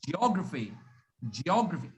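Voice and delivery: "geography" as ji-OG-ruh-fee, three-beat fall after a light ji; stress on O. Shown as a demonstration. Teacher models the first pronunciation, ji-OG-raphy for "geography". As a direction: keep the "ge" of "geography" light and lean on OG. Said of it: "the stress is on o".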